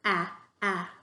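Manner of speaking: Ah said with the mouth wide open; big open Ah, Ah as if taking a bite; open ah sound. Shown as a demonstration. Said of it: "you're gonna make your mouth pretty big".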